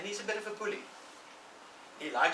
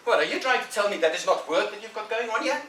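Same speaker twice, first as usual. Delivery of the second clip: put-on high, loud disbelieving boy; puzzled bully Ben; 10 semitones higher, 8 dB louder than usual. Ben puzzled at Tom calling painting fun, loud disbelief. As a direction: blurt it out in disbelief.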